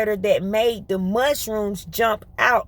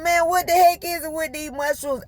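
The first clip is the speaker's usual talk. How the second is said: higher-pitched mock exasperation; retold exasperation; 6 semitones higher than usual. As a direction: complain as if fed up, playfully. Exasperated reply to husband, retold.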